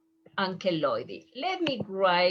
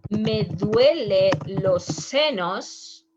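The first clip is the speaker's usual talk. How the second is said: slow, louder patient saying "Me duele los senos"; patient complaint; 6 dB louder, slower than usual. Acted. Patient tells the doctor, slow and louder. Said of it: "If the patient is coming and saying".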